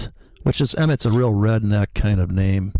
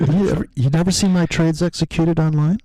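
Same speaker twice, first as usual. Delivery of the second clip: high haughty snob voice; snooty rich guy; 5 semitones higher than usual. Pretend. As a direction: brag like an offended rich snob. Mock posh rich snob.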